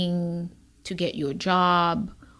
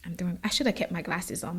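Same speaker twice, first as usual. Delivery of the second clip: holding back tears; 6 dB quieter, faster than usual. Real, not acted. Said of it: "I'm really trying not to cry here".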